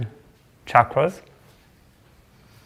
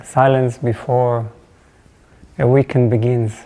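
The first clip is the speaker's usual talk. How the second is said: reflective opening blessing; 2 semitones lower than usual. Real, not acted. Teacher blessing the silence before class, reflective and unhurried.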